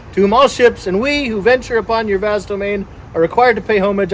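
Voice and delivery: formal invocation read out steadily; ceremonial reading. Pretend. Boat owner asking the sea god to accept a vessel, ceremonial reading. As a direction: recite it as a playful solemn rite. Reads naming invocation aloud.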